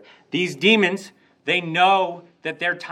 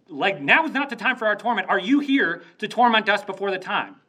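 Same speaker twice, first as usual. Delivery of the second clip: raised-pitch nervous demon pleading; panicky demons; 4 semitones higher than usual. Retold or imitated. Demons protesting to Jesus, high nervous plea. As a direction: plead like cornered demons caught early.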